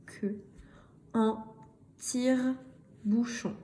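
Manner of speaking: slow, separated syllables; slow reading model. Shown as a demonstration. Teacher reading aloud for beginning readers, slow and measured. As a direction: break it into pieces with pauses.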